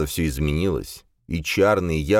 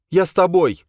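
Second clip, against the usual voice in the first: put-on high, impatient young woman's voice; an exasperated girl pushing to leave; Boya, impatient; 13 semitones higher, 6 dB louder than usual. Boya impatient with the others, high and pushy.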